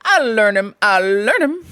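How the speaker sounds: emphatic mock threat; crying out. A narrator's reading. Toad threatening imaginary intruders, crying out. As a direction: cry it out, spoiling for a fight. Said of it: "he cried".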